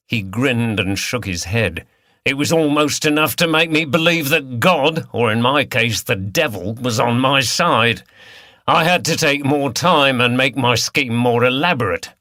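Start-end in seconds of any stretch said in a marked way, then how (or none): 2.2-12.1 lightly voiced Cockney villain; a hint of Cockney, harsh and taunting; Cockney accent. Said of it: "He spoke in a Cockney accent".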